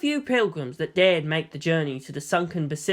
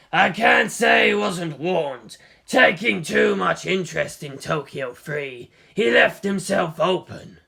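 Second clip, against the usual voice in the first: slow, emphatic raised voice; forceful declaration; slower than usual. Acted. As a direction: hammer home each word. Conspirator dismisses dead rival.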